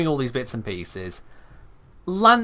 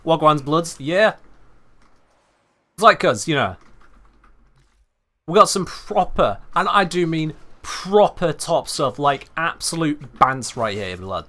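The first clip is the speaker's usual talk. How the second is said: mock chav British; 2 semitones higher than usual. Streamer acts out his rejected April Fool's video as a chav British guide. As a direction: ham up the chav British patter. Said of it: "chavvy British style".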